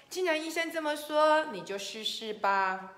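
lightly encouraging wife, starting high; optimistic. Acted. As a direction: nudge him along hopefully. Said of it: "倒是很乐观哦".

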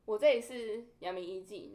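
slow, loud and stern; mock stern official. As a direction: announce yourself coldly, slowly. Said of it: "他就这么凶哦".

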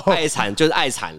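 laughing through the words; amused, laughing line. Real, not acted. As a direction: chuckle while you say it. Joking about being madly in love.

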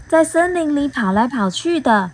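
a hint of a curious bee; bee asking. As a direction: ask it as the small bee. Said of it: "蜜蜂问".

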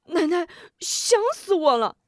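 high, eager cry of missing her; 激动地喊; joyful greeting. Acted. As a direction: rush to greet grandma. Grandson greets grandmother joyfully.

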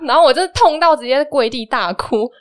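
laughing. Real, not acted. Laughing while telling of the punch.

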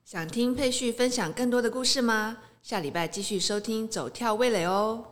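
polished, upbeat promo delivery; podcast outro read. Acted. Host asks listeners to subscribe next week, outro read. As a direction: invite listeners to follow the show.

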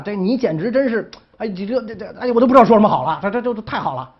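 flustered and tripping over the words, with a laugh; so thrilled he can't get a sentence out; giddy stammering delight; excited stammer. Retold or imitated. Thrilled duke stammers at advice.

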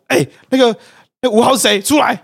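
high, loud officer calling a recruit out; mock barked callout. Officers burst into the barracks to call out bed five, mock barking. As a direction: summon him like a drill sergeant, half-joking.

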